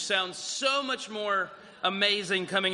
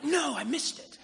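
mock dismay; 10 semitones higher than usual. Preacher retelling how he missed a celebrity, mock anguish. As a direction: wail it in comic frustration.

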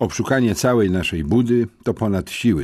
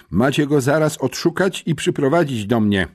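hissed through teeth; 7 semitones higher, 3 dB louder than usual. A narrator's reading. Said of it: "wycedziła".

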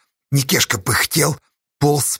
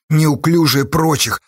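usual speaking voice

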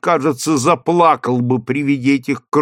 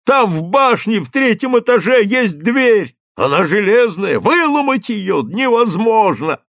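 shouting crowd; 6 semitones higher than usual. Acted. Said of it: "раздавались голоса".

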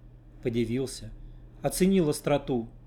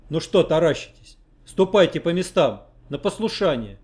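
louder sharp shout; shouting at them; 3 semitones higher, 6 dB louder than usual. Acted. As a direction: bark the order at the monks. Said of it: "прикрикнул".

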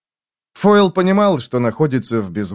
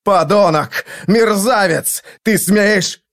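higher, louder furious insults; furious shouting; 8 semitones higher, 4 dB louder, slower than usual. Acted. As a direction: spit out the insults in rage. Prestein furious at Foyle.

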